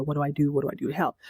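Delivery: fretting worry. Retold or imitated. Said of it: "in a tizzy".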